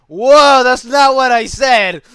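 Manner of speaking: loud high mock panicked whoa; panicked denial. Narrator denying to the angry guy, loud high panic. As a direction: back off fast and deny it. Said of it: "I'm like".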